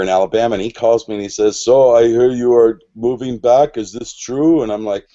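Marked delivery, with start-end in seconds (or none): 1.6-4.6 put-on a light, rough German accent on the friend's words. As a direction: imitate a German friend, a bit louder. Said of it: "That's a rough German accent".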